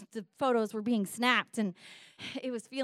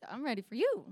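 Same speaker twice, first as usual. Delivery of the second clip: lightly raised answer, mildly eager; her own eager reply; 2 semitones higher, 3 dB quieter, faster than usual. Retold or imitated. Retelling her reply to lion man, mildly eager. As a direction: answer him with a touch of eagerness. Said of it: "I was like".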